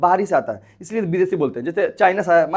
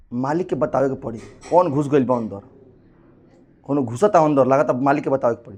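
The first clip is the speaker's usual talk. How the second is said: lightly voiced antibody, lower-pitched aside; antibody's worried report; 6 semitones lower than usual. Antibody to its master about an intruder, reporting. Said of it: "पहले, सबसे पहले कहेगा कि".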